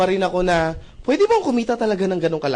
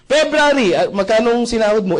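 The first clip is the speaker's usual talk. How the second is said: a lightly voiced boss, higher and louder, pressing the question; boss quizzing; 4 semitones higher, 5 dB louder than usual. Boss grilling employee about pay, mock-stern questioning. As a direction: mimic the manager drilling his employee.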